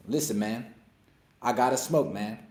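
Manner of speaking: a loose, easygoing hint of a rapper; impression of a rapper. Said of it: "That's my impression of a rapper".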